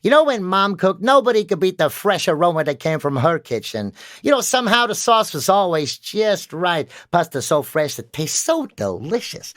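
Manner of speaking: hammed-up quirky American ad read; playful American accent, imitating a character ad. Student showing the coach a quirky American accent. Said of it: "this American quirky accent that I do".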